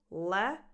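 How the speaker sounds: "le" alone with full emphasis; emphatic "le" with open eh; stressed syllable. Shown as a demonstration. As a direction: isolate stressed "le". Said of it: "stress is on the second syllable".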